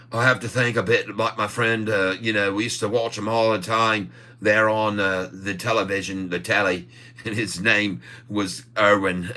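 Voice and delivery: lightly put-on Aussie accent; jokey mock Australian. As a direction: play at Australian with a chuckle. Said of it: "Better Aussie accent than the last time".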